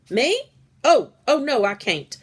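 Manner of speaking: high loud flustered no; panicked protest. A narrator's reading. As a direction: back away in alarm. Clementine panicking at request.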